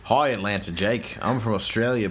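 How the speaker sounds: lightly attempted Australian accent. Shown as a demonstration. Comic reads out a commenter's greeting in a light Australian accent. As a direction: read it with a hint of an Australian accent. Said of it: "Just read that in an Australian accent".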